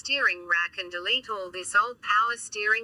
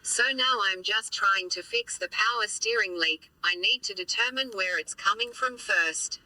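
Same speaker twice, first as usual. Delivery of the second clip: robot voice. Real, not acted. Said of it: "you're gonna have to put up with my robot voice for a bit".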